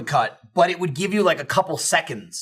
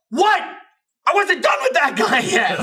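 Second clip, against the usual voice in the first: high, louder indignant cry; indignant outburst; 10 semitones higher, 3 dB louder than usual. Retold or imitated. Yanked from the lobby, high indignant protest. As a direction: protest the yank. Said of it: "I'm like".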